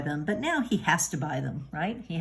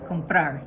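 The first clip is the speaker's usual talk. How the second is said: "Comprar" with a raised voice on the final A; stress on the A. Shown as a demonstration. Teacher repeating the word to point out its stress. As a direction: say "Comprar" hitting the last syllable "prar". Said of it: "You're raising your voice on the A".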